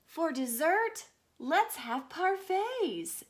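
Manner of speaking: high, slow elegant mom; lightly posh mom. Acted. Mom ordering dessert, high and slow. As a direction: savour it like a society lady. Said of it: "says Mom".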